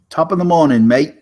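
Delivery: cheery British greeting in a hammed-up English accent; mock English accent. Co-host greets the podcast host in a mock English accent. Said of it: "we're throwing on our English accents today".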